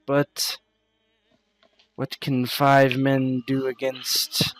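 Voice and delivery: lightly voiced, formal character challenging the listener; measured, doubtful speech with deliberate pauses; sceptical Fatima. Fatima challenging would-be protectors about the Khan, sceptical.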